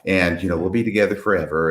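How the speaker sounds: soft, sentimental promise; tender mom. Retold or imitated. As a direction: speak gently to little Jimmy. Mom promising her son.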